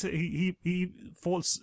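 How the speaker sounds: normal talking voice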